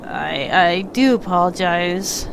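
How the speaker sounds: blocked nose, stuffy voice; congested. Real, not acted. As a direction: talk through a stuffed-up nose. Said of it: "I'm a bit congested today".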